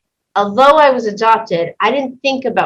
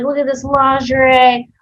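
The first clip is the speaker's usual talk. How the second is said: imitating the customer; 5 semitones higher than usual. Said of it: "she's like".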